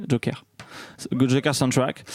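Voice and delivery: « Joker soundtrack » avec un petit accent anglais forcé; léger accent anglais. Shown as a demonstration. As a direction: prononce « Joker soundtrack » à l'anglaise, sans trop appuyer. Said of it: "j'utilise mon accent anglais". (« Joker soundtrack » dit avec un accent anglais discret)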